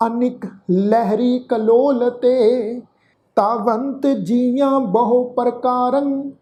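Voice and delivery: slow, drawn-out chant of the verse; scripture recitation. Shown as a demonstration. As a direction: intone each word slowly and devoutly. (ਹੌਲੀ ਹੌਲੀ ਪਾਠ ਉਚਾਰਨ)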